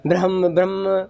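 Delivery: "ब्रह्म" quick and low, sliding into bramm; muddled reading. Shown as a demonstration. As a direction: run "ब्रह्म" together without the pause or long ending. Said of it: "इससे विपरीत किया". ("ब्रह्म" जल्दी, ब्रम्म जैसा)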